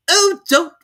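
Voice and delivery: grand and dismissive; Duchess. A narrator's reading. Duchess figure voice.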